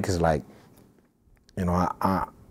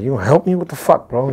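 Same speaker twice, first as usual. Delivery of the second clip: much higher, louder, incredulous demand; can't believe his boy is frozen; exasperated; 8 semitones higher, 8 dB louder than usual. Retold or imitated. Asking frozen friend for help.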